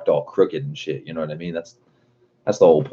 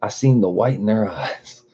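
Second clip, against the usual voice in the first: put-on quoting Old School; 5 semitones higher than usual. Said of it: "Old School said".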